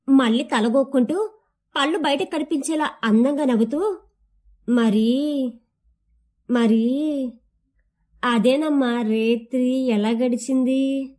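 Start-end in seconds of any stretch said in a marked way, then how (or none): 4.7-11.1 shy, teasing question. Acted. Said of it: "అడిగి సిగ్గుపడుతుంది".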